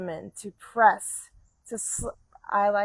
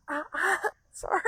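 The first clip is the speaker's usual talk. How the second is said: laughing; 8 semitones higher, faster than usual. Real, not acted. Breaks off laughing mid-cue.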